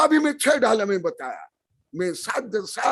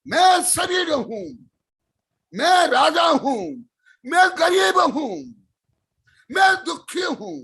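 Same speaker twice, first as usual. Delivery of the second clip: loud, higher boastful "I am" lines; proud loud declaration; 6 semitones higher than usual. Shown as a demonstration. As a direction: proclaim each one proudly, loudly. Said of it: "जोर से बोल रहा हूं".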